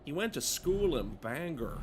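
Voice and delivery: lightly put-on local Bangor accent. Player recalling a friend's schooling, in a light put-on accent. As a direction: slip into a slight regional accent. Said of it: "Don't know why I'm doing that accent".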